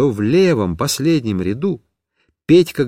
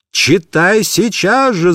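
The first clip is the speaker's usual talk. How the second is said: slow, mild shouted order; mock shout; 5 semitones higher, slower than usual. Teacher shouts at the pupil to read. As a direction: demand it now. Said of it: "закричала бедная Раиса Ивановна".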